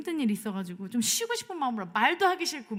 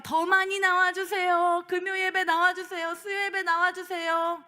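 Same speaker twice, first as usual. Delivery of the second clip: louder, pleading requests; urging; 5 semitones higher, 3 dB louder than usual. Retold or imitated. Pastor urging the congregation to attend services. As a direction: push each 예배 like a plea. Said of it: "숙제를 맡기고 가잖아요".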